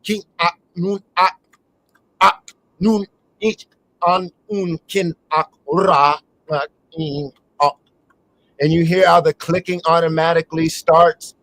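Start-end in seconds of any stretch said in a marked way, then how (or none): 0.0-7.8 quick foreign-sounding syllables; speaking El Kemet. Shown as a demonstration. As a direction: rattle off the El Kemet words. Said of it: "when I start speaking El Kemet".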